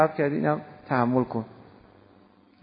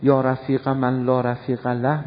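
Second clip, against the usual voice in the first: prayer recitation; 3 semitones lower, slower than usual. Acted.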